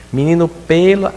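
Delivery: high, loud scolding mom; a mother scolding her son over the wet towel; mother's scolding tone. Retold or imitated. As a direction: call out to the boy like an exasperated mother. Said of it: "ela faz com entonação".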